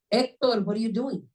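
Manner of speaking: lightly acted alarmed wife; wife's objection. Wife asking Hector why he pulled over, objecting.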